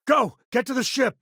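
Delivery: desperate yelled order to run; frantic yell. Acted. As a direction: scream at them to get out now. Fleeing danger, yelling to companion.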